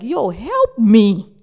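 slow, high pleading cry; mock sobbing plea for help. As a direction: beg for help, voice straining high. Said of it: "the woman was literally crying, like".

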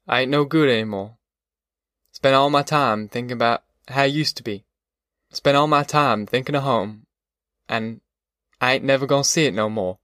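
understated weary country man; lightly voiced defeated father. Pa admitting to Ma he is no good, understated defeat. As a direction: lightly play a worn-out, homesick father.

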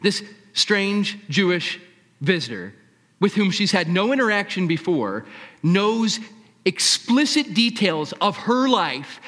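ordinary talk, nothing marked

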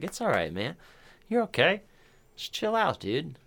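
high, gentle calming voice; soothing comfort. Retold or imitated. Talking to the anxious actor on screen, high and soothing. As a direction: coax him to chill out.

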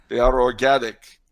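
put-on dubious Amazonian accent, comic insistence; mock Amazonian accent. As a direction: answer as the accuser, made-up Amazonian accent. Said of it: "if that was an Amazonian accent".

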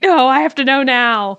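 loud, high mock insistence; impatient demand. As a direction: imitate a friend demanding to know at once. Reenacting the friend's impatient demand.

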